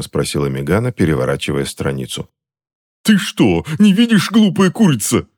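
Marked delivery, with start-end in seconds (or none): 3.0-5.3 strained, much higher pained snarl at his wife; furious high snarl; beastly growl. A narrator's reading. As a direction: snap at her like a cornered animal. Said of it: "по-звериному зарычал дядюшка в ответ".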